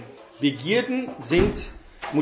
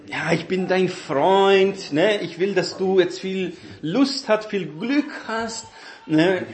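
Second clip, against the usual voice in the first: höhere, schmeichelnde Stimme eines lockenden Teufels; verführerischer Teufel; 3 semitones higher than usual. Retold or imitated. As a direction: locke den Zuhörer wie ein falscher Freund. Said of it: "der Teufel, der sagt". (leicht gespielter Teufel, höher und einschmeichelnd)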